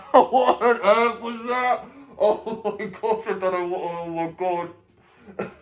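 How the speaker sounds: real giggling fit that barely gets words out; helpless laughter. Real, not acted. Host cracks up at her own mouth noise, laughing.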